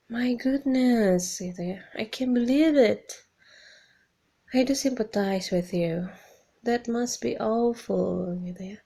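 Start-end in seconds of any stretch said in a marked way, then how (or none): 0.1-1.4 slow, high and loud disbelief; shocked sympathy. Shown as a demonstration. Teacher modelling shock at bad news. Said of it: "you can say". 1.9-8.3 higher, louder, drawn-out concern; sympathetic dismay. Shown as a demonstration. Teacher showing sympathy for a friend's bad news. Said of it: "you can say".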